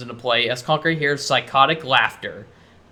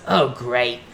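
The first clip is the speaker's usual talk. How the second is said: weary, annoyed sigh of a line; 3 semitones lower than usual. Acted. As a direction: say it with tired annoyance. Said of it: "shakes his head in annoyance".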